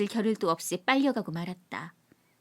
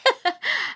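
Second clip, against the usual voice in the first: tipsy laugh; 8 semitones higher, 4 dB louder than usual. Acted. Laughs at own mimicry.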